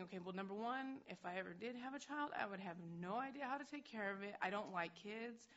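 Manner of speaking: put-on thinking aloud, dreading having a child; panicked inner thoughts. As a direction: build from doubt to flustered alarm. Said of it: "and I'm thinking".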